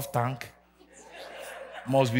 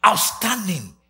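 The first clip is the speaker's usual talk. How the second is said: high and loud, sung out; loud preaching; 6 semitones higher, 8 dB louder than usual. Real, not acted. Preacher to congregation, a loud high sung-out line. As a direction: thunder it to the room.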